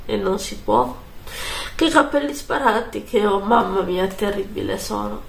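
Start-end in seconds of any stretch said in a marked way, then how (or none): 1.8-5.2 stuffy nose from a cold; blocked nose, nasal speech. Real, not acted. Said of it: "Scusate ancora per la voce nasale".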